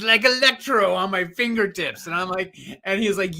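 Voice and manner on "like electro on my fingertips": mock electro voice. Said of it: "He goes".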